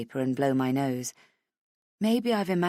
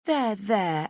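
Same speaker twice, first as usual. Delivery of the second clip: soothing there there; 5 semitones higher than usual. Acted. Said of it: "a series of".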